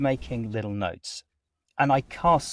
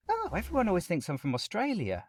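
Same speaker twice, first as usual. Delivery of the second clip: higher-pitched imitation of a New Zealand accent; 7 semitones higher than usual. Neighbour answering a wrong guess, in a New Zealand accent. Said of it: "She's from New Zealand".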